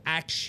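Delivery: "ax" rhyming with "tax", meaning ask. Shown as a demonstration. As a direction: say "ax" in place of ask, k before s. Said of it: "they say I mispronounce".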